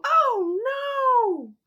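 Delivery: high, loud alarmed cry. A narrator's reading. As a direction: gasp it out in alarm.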